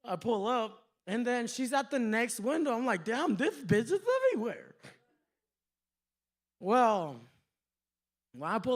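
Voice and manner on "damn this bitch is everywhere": mock headgear speech. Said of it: "had this whole headgear".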